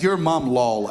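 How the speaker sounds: deadpan official read-out; imitating a deadpan interviewer reading chat; straight-faced. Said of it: "She said it with such a straight face".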